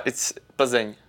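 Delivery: Plzeň said the Czech way, PL-zen; native pronunciation. Shown as a demonstration. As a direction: teach them Plzeň. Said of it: "Which one?".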